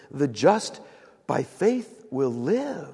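"live" drawn out slowly at the end; pause, then stretch and land on "live"; stress on LIVE. Shown as a demonstration. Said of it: "it was this".

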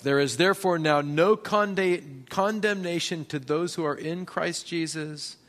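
trips on condemnation, then restarts it; a stumbled first read of the verse; stumbling read. Shown as a demonstration. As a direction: fumble the word mid-verse and start it again. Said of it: "I always mess it up".

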